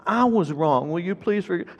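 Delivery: retold apology, gently insistent. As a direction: stress that the fault is yours. Father correcting the child's echoed apology.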